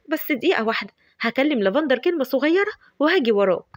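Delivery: flustered delight, bubbling over; giddy Shams. Acted. Shams gushes over Marwan.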